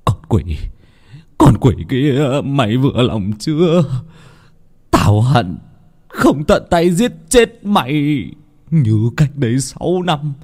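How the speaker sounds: tearful, hateful cursing, slowing down; grieving fury. Acted. Father curses the demon who killed his daughter, tearful rage. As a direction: spit hatred through tears. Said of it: "nước mắt ướt đẫm".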